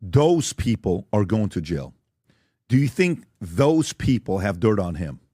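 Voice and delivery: slow, low, measured delivery; role-play questioning. Acted. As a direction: lay it out slowly, lightly acted. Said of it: "So let's role play".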